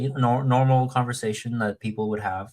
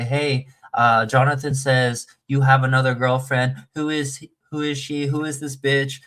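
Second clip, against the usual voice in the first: mild mock yell, raised in pitch toward the end; toned-down jealous outburst, retold; 3 semitones higher, 4 dB louder than usual. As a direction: imitate an angry girlfriend confronting him, only half-shouted. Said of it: "all of a sudden she starts yelling".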